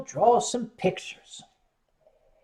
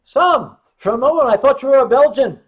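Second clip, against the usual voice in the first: amused Dutch colleague; 6 semitones higher, 10 dB louder than usual. Retold or imitated. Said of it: "And Peter said".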